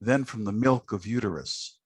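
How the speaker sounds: lively spoken-word poetry recital; poem reading. Acted. Host reading the absent poet's stingray poem aloud, expressive recital. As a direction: read it like a performance poet savouring the words.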